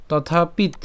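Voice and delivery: "তথাপিত" closed on a t; broken-up pronunciation. Shown as a demonstration. Teacher splits the compound for learners, "তথাপিত" ending on t. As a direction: stop "তথাপিত" on the final t, tathapit. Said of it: "ভেঙে উচ্চারণ করতে যাই".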